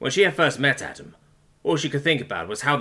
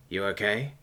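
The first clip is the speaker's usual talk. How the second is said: soft-edged check on a friend; soothing; 4 dB quieter than usual. A narrator's reading. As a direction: gently ask after someone upset. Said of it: "he said in a soothing voice".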